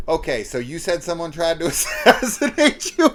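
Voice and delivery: quoted question collapsing into loud laughs; breaking into laughter. Retold or imitated. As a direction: lose it laughing mid-impression, high and loud. Cracking up while voicing the detective.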